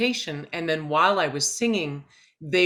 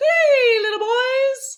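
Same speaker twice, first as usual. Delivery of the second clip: very high, thin, floated-up head voice; 7 dB louder than usual. Showing what pure head voice sounds like: Mickey Mouse head voice. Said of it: "pure head voice is oh, it's kind of like, you know, think of of how Mickey Mouse sounds".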